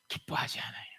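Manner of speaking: whispered answer. Real, not acted. Pastor whispering the answer to the congregation. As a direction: drop to a hushed whisper.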